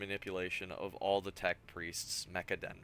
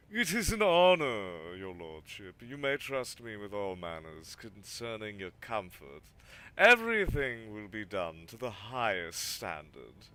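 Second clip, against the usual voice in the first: obsequious; 5 dB louder than usual. Acted. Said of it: "obsequious smile and bows".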